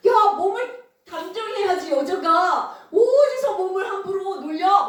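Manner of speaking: acted indignant reprimand; mock scolding. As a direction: scold her like an outraged elder. Acted adults scolding Mary.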